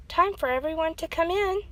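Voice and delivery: high, loud call. A narrator's reading. Mother calling everyone in from the storm, loud call. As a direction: summon the kids inside. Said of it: "called his mother".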